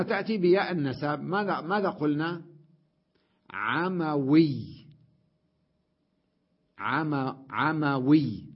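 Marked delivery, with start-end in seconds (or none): 3.5-8.4 slow syllabified demo. Shown as a demonstration.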